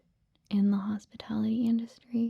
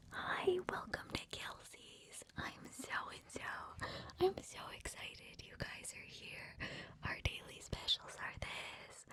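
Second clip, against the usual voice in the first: high, hushed imitation of a bubbly server; 10 semitones higher, 15 dB quieter than usual. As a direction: imitate an over-excited chain-restaurant greeting, softly. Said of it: "the most bubbly server".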